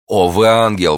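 high, loud rapture; adoring exclamation. A narrator's reading. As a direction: exclaim it as a smitten young man. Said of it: "воскликнул молодой человек". (восторженное восклицание)

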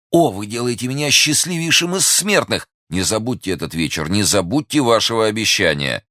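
high, elated outburst; rapturous joy. Acted. Young man promised she will remember, rapturous. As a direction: gush with happiness, pitch soaring at the start. Enraptured lover thanks her.

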